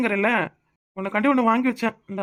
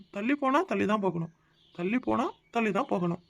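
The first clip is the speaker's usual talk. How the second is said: softer, pondering the riddle to himself; puzzled musing; 6 dB quieter than usual. Shown as a demonstration. Husband puzzling over his wife's hint, softly to himself. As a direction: turn the words over quietly, trying to crack them. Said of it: "என்ன அர்த்தம்?".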